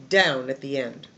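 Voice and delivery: "down at the end" dropped low in pitch; falling final pitch. Shown as a demonstration. Teacher demonstrates the list's pitch, low final drop. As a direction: let "down" fall, landing low on "end". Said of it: "So your pitch is like this".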